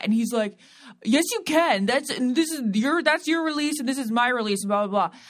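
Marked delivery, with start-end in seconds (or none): 1.0-4.6 mock arguing. Acts out husband arguing back.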